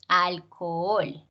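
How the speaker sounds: "alcohol" drawn out slowly, leaning on "hol"; stress on the last syllable. Shown as a demonstration. Teacher showing the class where the stress falls in "alcohol". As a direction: stretch "alcohol" and land hard on "hol". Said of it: "hacemos la fuerza aquí".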